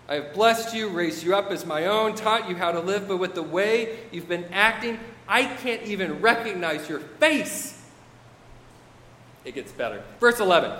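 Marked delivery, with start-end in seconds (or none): 0.1-7.8 a lightly voiced God, fed up with his people; mild exasperation, lively emphasis; God's rebuke. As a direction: scold like a let-down parent.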